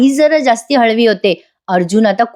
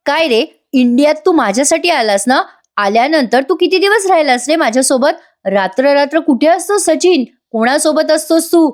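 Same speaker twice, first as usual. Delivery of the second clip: higher-pitched, mildly accusing retold questions; accusing questioning; 5 semitones higher than usual. Wife asking husband where he spends his nights, accusing. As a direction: press him for answers without raising volume.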